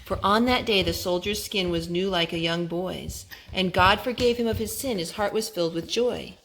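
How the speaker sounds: rhythmic rhyming read-aloud; reading to children. Acted. Parent reading a rhyming Bible book to her son. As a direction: read the rhyme to a small child.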